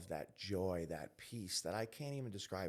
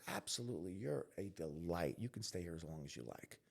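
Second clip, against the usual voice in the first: softer, gently reassuring quote; retold kindly welcome; 4 semitones lower, 5 dB quieter than usual. Best friend's mother taking him in, gentle welcome. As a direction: lightly voice a welcoming mother, hushed down.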